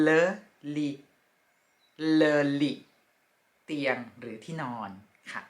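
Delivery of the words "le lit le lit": le lit, each word said apart and then joined; French le lit, said clearly; French pronunciation. Shown as a demonstration. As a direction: model le lit for students. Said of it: "ภาษาฝรั่งเศสเรียกว่า".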